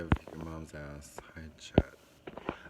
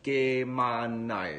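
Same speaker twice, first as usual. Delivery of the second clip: resigned restatement; 3 semitones higher, 5 dB louder, much slower than usual. Retold or imitated. Son restating flatly.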